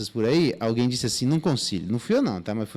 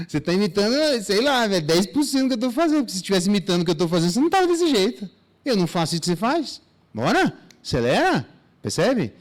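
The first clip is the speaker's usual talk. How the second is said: higher and faster, scoffing lecture; mock exasperated scolding; 6 semitones higher, much faster than usual. Mentor scolds the one copying him, fast and exasperated. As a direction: rattle it off like a fed-up mentor. Role model scolds the imitator.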